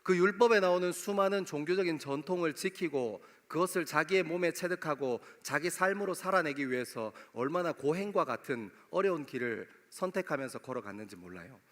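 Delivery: ordinary delivery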